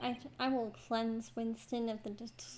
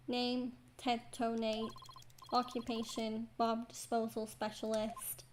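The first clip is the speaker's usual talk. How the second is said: robot voice. Acted. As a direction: speak like a text-to-speech machine. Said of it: "what a strange robotic voice you have".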